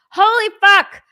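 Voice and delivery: loud, high burst of disbelief; real shocked outburst; amazed exclamation. Real, not acted. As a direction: blurt it out loud, astonished. Repeats swear, amazed at donations.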